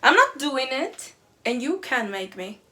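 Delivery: loud defiant shout; student screaming defiance. Retold or imitated. Student to teacher, loudly refusing to work. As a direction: yell it back at the teacher, refusing. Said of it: "and she screams".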